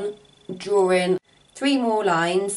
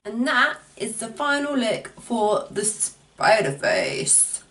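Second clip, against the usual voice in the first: slow, spooky creature voice; drawn-out creepy spider voice; slower than usual. Acted. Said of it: "That's my spider voice, apparently".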